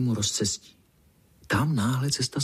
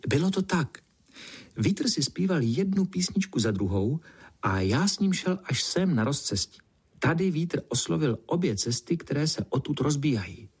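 lightly voiced ant, higher pitch, telling a tale; earnest little ant; 4 semitones higher than usual. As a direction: recount it as a small, earnest ant.

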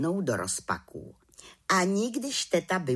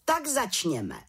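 slow, higher call to order; drawn-out proclamation, raised in pitch; 6 semitones higher, slower than usual. A narrator's reading. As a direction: open proceedings as the head witch. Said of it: "zvolala vrchní čarodějnice".

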